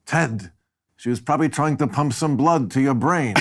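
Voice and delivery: lightly voiced dry sidekick; deadpan wisecrack, lightly done; Murray impression. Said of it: "a pretty good Gavin MacLeod".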